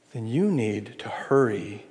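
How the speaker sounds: hushed and slow, pleading; a soft whispered plea to hurry; urgent whisper. Real, not acted. Earnest plea to respond to God.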